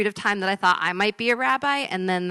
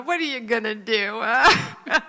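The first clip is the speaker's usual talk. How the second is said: self-mocking laugh; 3 semitones higher than usual. Mother laughing at herself.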